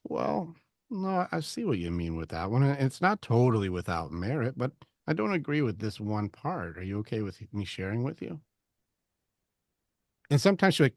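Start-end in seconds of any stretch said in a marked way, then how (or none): 0.0-8.4 gentle disagreement. Acted. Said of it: "I'm gonna get closer to you".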